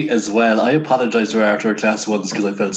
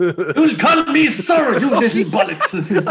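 slow, higher, louder stern scolding; old principal; 10 semitones higher, 3 dB louder, much slower than usual. Retold or imitated. An old school principal scolding a pupil, slow and stern. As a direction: drag out the order like a bossy principal. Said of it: "Sounds like my old principal".

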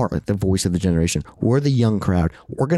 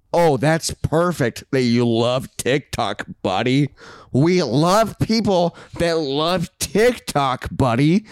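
mock praise; 4 semitones higher, slower than usual. Mock-praising the TikTok fan.

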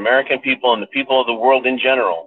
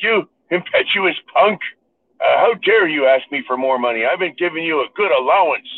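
put-on indignant old man; 4 semitones higher than usual. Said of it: "He's like".

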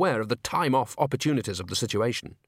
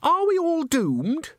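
very high, drawn-out squeak; tiny high voice of dread; Christine; 3 dB louder, slower than usual. A narrator's reading. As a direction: squeak it in panic. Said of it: "squeaked Christine".

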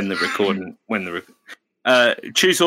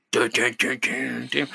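a hint of Randy Marsh chanting the sting, fading softer; Randy Marsh style; 3 semitones higher, 3 dB quieter than usual. Teller redoes the sting like Randy Marsh, light cartoon chant. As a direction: redo the dun-dun as a cartoon dad. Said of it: "It sounds like Randy Marsh".

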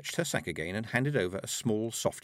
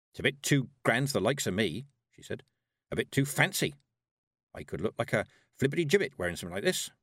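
"too grand" and "too fancy" stated, "like this" left faintly asking; a statement with a questioning curl on "like this"; 3 semitones higher than usual. A narrator's reading. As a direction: state it, then fish for reassurance on "wearing something like this". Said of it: "spoken like a statement, but it had a curl like a question".

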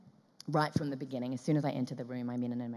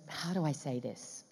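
slow, softer, pondering delivery; searching for words; 3 dB quieter, slower than usual. Retold or imitated. Director groping for words to actress, slow pondering. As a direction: feel for the right words.

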